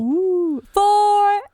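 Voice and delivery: delighted high squeal of excitement; excited. Real, not acted. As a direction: cheer it out, thrilled. Carol reacts to episode four.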